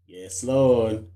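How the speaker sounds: live-stream voice filter warping the voice. Real, not acted. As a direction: sounds run through an app filter. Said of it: "So I got a filter on?".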